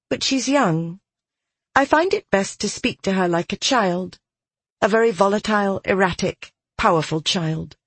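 put-on calm girl. A narrator's reading. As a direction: counsel him calmly. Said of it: "Her face calmer than".

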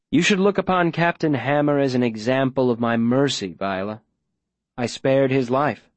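measured, coaxing man in control; smooth, persuasive mayor. Acted. Mayor pressing Viola for a location, smooth persuasion. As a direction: coax deliberately, slowing for effect.

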